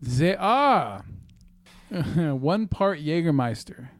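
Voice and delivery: slow, mock German accent; hammy, drawn-out German accent. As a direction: read the recipe slowly in a fake German accent. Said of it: "If you're going to do the German voice".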